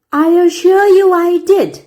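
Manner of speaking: sarcastic schoolmaster. A narrator's reading. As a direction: lay on the sarcasm. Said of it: "still with the sarcastic inflection".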